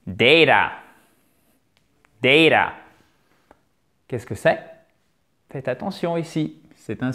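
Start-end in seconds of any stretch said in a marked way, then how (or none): 0.1-2.7 Data with a strongly pressed DAY, falling; emphatic model for repetition. Shown as a demonstration. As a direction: give Data full stress up front for learners to copy. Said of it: "Allez-y vraiment".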